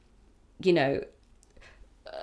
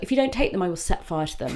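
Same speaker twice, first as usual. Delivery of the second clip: lightly acted threat, pitched up then dropping; retold mum's threat; faster than usual. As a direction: imitate a mum's dramatic ultimatum. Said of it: "She's like".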